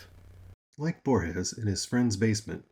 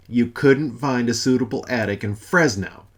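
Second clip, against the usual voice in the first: louder outraged repeat of her words; incredulous echo; 4 semitones higher, 8 dB louder than usual. Acted. God echoing Mother's news, outraged disbelief. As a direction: throw her sentence back at her in disbelief. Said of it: "incredulous echo".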